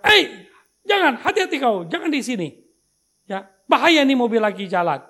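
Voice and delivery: put-on loud, sharp call to children to stay back; warning shout. Pastor shouting at children playing near his car, loud warning. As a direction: yell a warning at kids behind the car.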